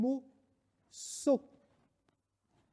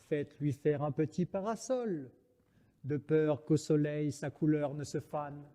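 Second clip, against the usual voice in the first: tender; 3 semitones lower, 4 dB quieter than usual. Acted.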